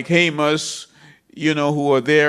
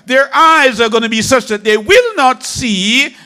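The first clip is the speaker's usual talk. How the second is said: louder, faster, driving sermon with a higher pitch; rising into full-force preaching; fiery preaching; 6 semitones higher, 3 dB louder than usual. Acted. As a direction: preach it hard to the congregation.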